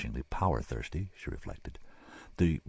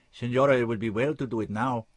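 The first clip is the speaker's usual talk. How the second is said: a hint of a polite doctor, higher; lightly voiced surgeon; 6 semitones higher, 4 dB louder than usual. Surgeon urging the senora, lightly voiced. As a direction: urge her gently, higher voice.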